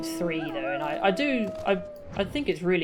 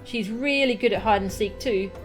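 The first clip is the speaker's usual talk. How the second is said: put-on bouncy child voice with swooping pitch; inquisitive child; 4 semitones higher than usual. Kaharu found hiding by a stranger, inquisitive child. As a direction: play a chatty, curious kid.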